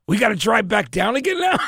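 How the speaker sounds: high, mock-scared question; retold fright. Driver dreading the narrow mountain road, mock scared. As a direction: play up the nervous disbelief, lightly. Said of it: "being scared shitless".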